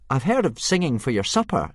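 put-on boy's voice. Hiccup voiced by narrator.

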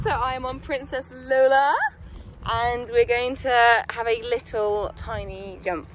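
vlog presenting. Real, not acted. Rider updating viewers on the jumping plan, loud presenting. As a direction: project an update to the viewers, unhurried.

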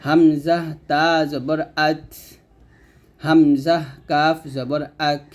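আত and আক released slowly with breath; breathy final stops. Shown as a demonstration. Teacher repeating the hams drill slowly. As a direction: keep the air flowing on ত and ক. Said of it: "তো এরকমভাবে উচ্চারণ করতে হবে".

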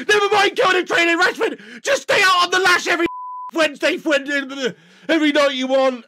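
fast, teasing through laughter; mock the player while laughing; laughing tease. Real, not acted. Fan teasing Rashford about partying, laughing.

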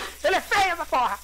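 loud, high, laughing in revulsion; laughing disgust. Real, not acted. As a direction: shout it half laughing, grossed out. Reacting to ugly monster.

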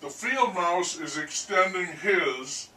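HIS set off before a pause; stress on HIS. Real, not acted. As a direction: lean on the word HIS. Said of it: "I emphasize the word his".

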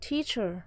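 teacher stressed on TEA, light cher; stress on first syllable. Shown as a demonstration. Teacher gives another noun example, stress on tea. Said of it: "trọng âm ở đầu tiếp".

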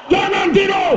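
high-pitched yell to wake sleepers; loud lecturing voice. Shown as a demonstration. Preacher waking dozing audience, loud strident call. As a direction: shout it high and drawn out. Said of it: "suara saya kuat".

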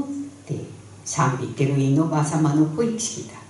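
Tsugaru folk tale narration; thick tsugaru dialect. A narrator's reading. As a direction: tell it like an old village storyteller. (津軽弁の昔話の語り)

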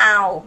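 "ow" on a level mid tone. Shown as a demonstration. Teacher modelling a Thai word, mid tone on "ow". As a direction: hold "ow" even at mid pitch. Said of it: "mid tone".

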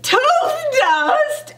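half-shouted question. A narrator's reading. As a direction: blurt it as a startled question. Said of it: "I kinda shouted".

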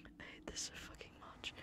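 soft unvoiced whisper. Real, not acted. Hiding from danger in the game, miserable whisper. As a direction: keep it hushed and miserable.

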